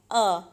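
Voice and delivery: अ as short "u" as in but; short U sound. Shown as a demonstration. Teacher giving the sound of U, अ as short "u". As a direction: say अ as the U of cup. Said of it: "जिसका sound है".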